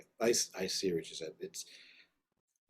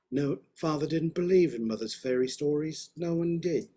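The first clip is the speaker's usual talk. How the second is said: put-on British accent; 5 semitones higher, 3 dB louder than usual. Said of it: "I'll stop doing that".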